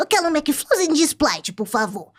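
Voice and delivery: swooping sing-song character voice bouncing up and down. Retelling ordering a drink at McDonald's: Cebolinha voice. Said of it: "com a voz do Cebolinha".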